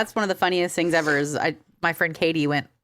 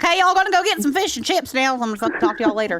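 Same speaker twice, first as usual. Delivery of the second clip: higher, rushed mock British-Texan accent; flustered tourist mixing accents; panicked fake accent; 7 semitones higher than usual. Texan panicking abroad, in a garbled fake British accent. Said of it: "I just go full fucking".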